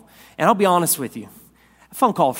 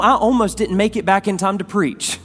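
excited aside; 5 semitones higher, 4 dB louder than usual. Real, not acted.

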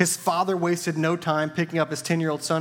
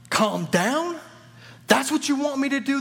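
outraged disbelief; 11 semitones higher than usual. Acted. Father flaring up when the doctor tells him to stay calm, high and incredulous. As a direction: throw it back at him, incredulous and furious.

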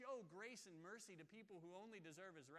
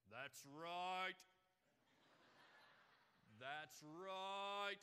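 booming amen voice; 4 dB louder, much slower than usual. Retold or imitated. Imitating the congregant booming that's right. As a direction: call it back from the pews. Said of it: "his amen voice".

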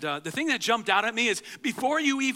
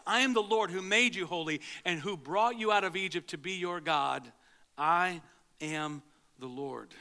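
scripture reading. Shown as a demonstration. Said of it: "verse thirty-one says this".

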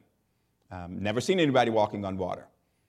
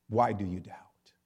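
whispered rebuke; 3 semitones lower, 3 dB quieter than usual. Acted. Jesus gently rebukes Peter.

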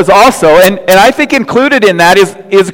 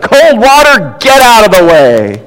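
raised, higher voice calling off a dog; grandfather's shout; 4 semitones higher, 3 dB louder than usual. Acted. Grandfather to his dog while watching football, shouting. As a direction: holler it across the room as an old grandfather. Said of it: "grandfather shouted".

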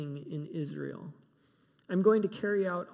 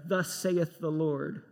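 slow, solemn prophetic voice; 3 dB louder, slower than usual. Pretend. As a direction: intone it like an old prophet. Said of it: "prophets hearing messages like".

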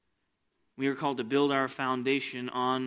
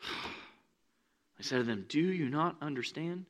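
weary sigh; 8 dB quieter, slower than usual. Acted. Jesus weary.

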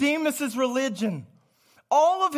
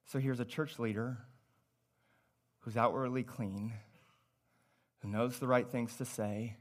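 hushed sermon voice; 12 semitones lower, 14 dB quieter than usual. Acted. Preacher to congregation, hushed and intimate. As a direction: drop to a low, soft murmur.

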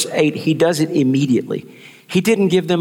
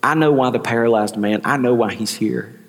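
calm Jesus; 2 semitones lower than usual. Acted. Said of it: "Jesus says".

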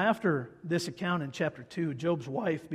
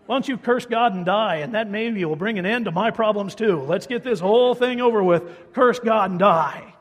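loud, pressing, higher voice urging him to give up; wife's bitter plea; 4 semitones higher, 10 dB louder than usual. Retold or imitated. Wife urging her suffering husband to give up, loud and insistent. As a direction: push hard, begging him to quit. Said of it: "That's what she's saying".

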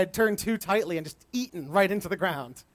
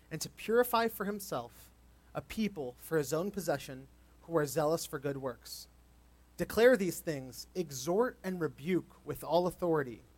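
measured, lightly formal Bible reading; scripture reading. Acted. Pastor reading Titus to the congregation, measured reading.

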